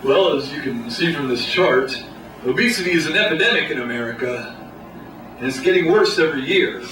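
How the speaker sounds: lightly voiced boardroom pitchman; a hint of corporate presenter, increasingly emphatic; marketing guy. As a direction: pitch it like an ad executive, building to a slogan. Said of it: "the marketing guy, the Don Draper type".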